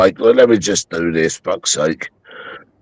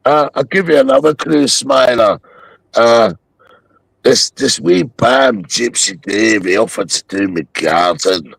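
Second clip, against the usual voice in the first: put-on glasgow street accent. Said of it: "you're doing that accent again".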